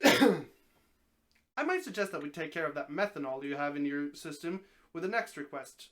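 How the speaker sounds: a hint of a slow, low snake voice; calm, knowing talking snake; lightly voiced snake. Talking snake advising the stranded man, lightly voiced.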